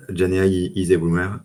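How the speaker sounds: English slogan with a French accent; self-mocked English accent. Real, not acted. Speaker quoting "everywhere" slogan to co-host, French-accented English. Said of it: "super accent anglais".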